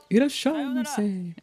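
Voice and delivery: drawn-out copied merchant greeting; mock shopkeeper welcome, echoed; echoing the shopkeeper. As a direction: parrot the shop greeting slowly. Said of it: "I have such a bad case".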